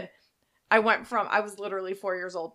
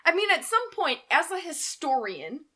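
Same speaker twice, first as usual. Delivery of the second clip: high excited gush; 9 semitones higher than usual. Real, not acted. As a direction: squeal it out excitedly.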